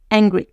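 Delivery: "angry" begun straight on the vowel; no initial H. Shown as a demonstration. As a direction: start "angry" without any puff of H. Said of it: "ça va faire toute la différence".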